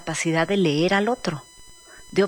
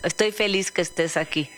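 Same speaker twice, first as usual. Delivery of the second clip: unenthusiastic; 3 semitones lower than usual. Shown as a demonstration. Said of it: "¿Qué tal la voz cuando no hay entusi-?".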